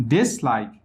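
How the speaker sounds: DIS in dislike stressed over like; primary stress on DIS, weaker on like. Shown as a demonstration. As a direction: lean on the first syllable, DIS-like. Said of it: "dis دارای فشار اصلی است".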